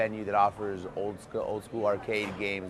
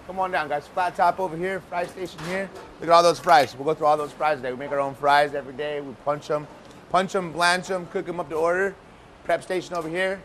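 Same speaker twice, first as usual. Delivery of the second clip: calling from far away; 6 semitones higher, 3 dB louder than usual. Real, not acted. Chef leading tour through loud kitchen.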